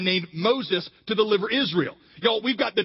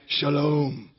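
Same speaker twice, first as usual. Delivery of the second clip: refreshed shalom; 6 semitones lower than usual. Shown as a demonstration. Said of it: "sounds like cool water rushing over my head".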